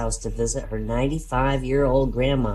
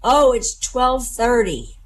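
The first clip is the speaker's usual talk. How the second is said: put-on slow old man voice; 9 semitones higher, 3 dB louder, slower than usual.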